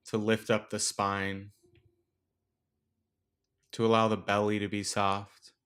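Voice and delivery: unhurried meditation guide, long pauses between phrases; guided meditation. Acted. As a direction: gently lead listeners through the breath, leaving space after each instruction. Leads a breathing meditation.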